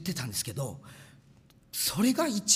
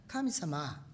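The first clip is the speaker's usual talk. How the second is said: retold prayer; 2 semitones higher, 3 dB louder than usual. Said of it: "取り出して祈った".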